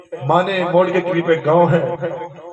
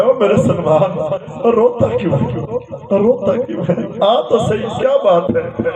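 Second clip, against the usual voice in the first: raised, pleading questions to someone dear; anguished concern; 5 semitones higher than usual. Retold or imitated. Prophet to his weeping companion Salman, anguished concern. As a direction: call out with aching concern, pitch lifted. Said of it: "آقا تڑپ گئے".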